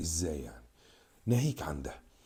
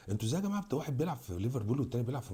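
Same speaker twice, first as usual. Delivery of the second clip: exasperated outcry; 6 semitones higher, faster than usual. Real, not acted. Vlogger pleading to his viewers, exasperated high outcry. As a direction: pitch jumps much higher in disbelief.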